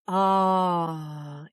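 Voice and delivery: a loose open-jaw sigh on ah; relaxed sigh. Shown as a demonstration. Coach showing viewers the slack-jaw release, open sighed ah. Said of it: "keep your jaw nice and slack".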